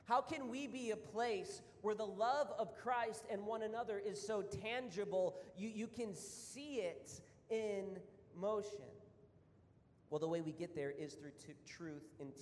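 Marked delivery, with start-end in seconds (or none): 0.0-8.8 eager wondering. Retold or imitated. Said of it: "I'm like".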